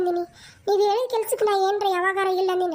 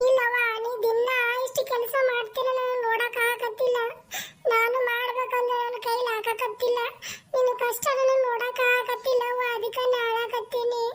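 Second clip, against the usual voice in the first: put-on tearful child; 3 semitones higher than usual. Child cries for mother.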